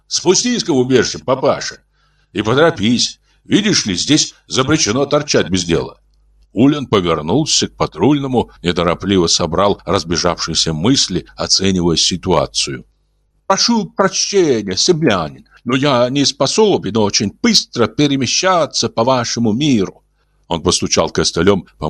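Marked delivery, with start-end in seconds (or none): 0.1-6.0 brisk order from a patrolman; gruff patrolman. Acted. Patrol officer voiced in story. 13.5-20.0 gentle alien voice. Acted. Martian Ulin voiced in story.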